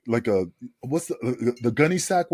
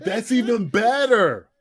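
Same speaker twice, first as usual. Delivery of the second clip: higher, laughing through the words; laughing mock praise; 8 semitones higher, 3 dB louder, slower than usual. Sal laughing at the flamingo gimmick, mock praise. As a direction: crack up while praising it. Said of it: "Sal's still standing there like".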